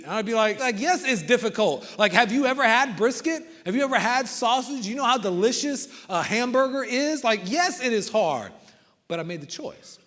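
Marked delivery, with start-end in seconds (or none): 0.8-8.5 higher, louder, worked-up pleading about brisket; retold exasperated answer, higher and louder; exasperated yes. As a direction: sell how hard it is with mock exasperation. Retold answer about missing meat.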